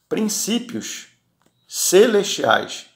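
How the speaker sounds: "princípios" drawn out high and slow, then "celestiais" slow; slow stress on princípios celestiais. Real, not acted. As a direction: stretch out "princípios celestiais" slowly, the first word lifted high. Preacher stresses heavenly principles. (ênfase lenta em "princípios celestiais")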